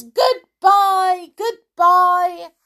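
high, loud repeated goodbye; shouted. A narrator's reading. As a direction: keep calling after her. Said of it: "shouted the toys".

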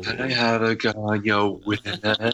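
joining in on the drag queen impression; playful copy of a drawling drag queen; Alaska. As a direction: draw it out in a put-on voice. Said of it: "Just in that typical voice".

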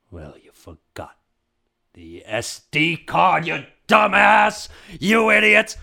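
slow cartoon-villain tirade, exploding at the end; furious villain boss. Jaguar boss berating henchmen over SD card, furious villain voice. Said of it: "The boss is like the jaguar".

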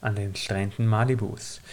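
low, calm storyteller voice; story narration. Acted. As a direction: read it like an audiobook opening. Reads a scene setting.

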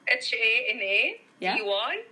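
letters H A N A D Y said one by one; spelling it out. Shown as a demonstration. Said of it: "Can you spell that for our listeners?".

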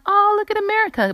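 bright, quick gush of pride; delighted exclamation. Pretend. Vlogger gushing over the US Open crowd, quick and delighted. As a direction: say it like you are moved and proud. Touched by crowd cheering Serena.

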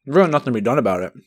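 talking through a mouthful of food; words round a bite of fried rice; mouth full. Real, not acted. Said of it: "Sorry that I'm talking with my mouth full".

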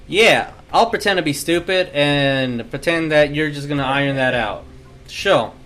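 sceptical father humouring his daughter; dad to daughter. Acted. Gabe answers his daughter's excuse, like a disbelieving dad. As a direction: play along like an unconvinced dad. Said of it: "exactly how a dad would, like, a dad talks to his daughter".

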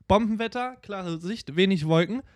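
high, loud eager explaining; excited. Real, not acted. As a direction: pitch it up, get carried away. Eagerly explaining joke origin.

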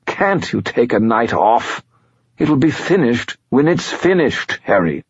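high, impatient spirit voice; Bob skull voice. A narrator's reading. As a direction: nag like a tired old spirit.

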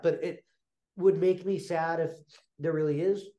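congested, nasal tone. Real, not acted. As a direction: talk through allergies. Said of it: "Sorry, I sound terrible".

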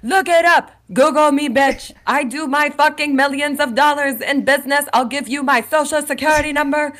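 high-pitched irate rant; worked-up, offended protest; indignant outburst. Retold or imitated. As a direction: reenact a heated, high-voiced tirade. Acts out Angie's angry outburst.

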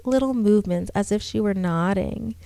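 steady storytelling read; story narration. A narrator's reading. Reads horror story aloud.

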